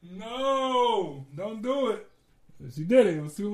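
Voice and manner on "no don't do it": high, loud laughing no, don't; pleading through laughter, pitched way up; frantic mock plea. Telling his friend not to, laughing and pleading. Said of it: "I'm like".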